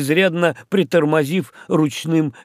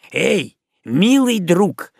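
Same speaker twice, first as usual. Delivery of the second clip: slow, higher friendly hail; hailing the islander, slow and high; calling out; 6 semitones higher, 3 dB louder, slower than usual. A narrator's reading. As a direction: draw the call out to the islander. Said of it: "крикнул Кацман".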